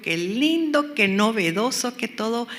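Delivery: lightly hammed-up delight; mock enthusiasm. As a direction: play up being enchanted by a novelty. Recalling her first enthusiasm for the course.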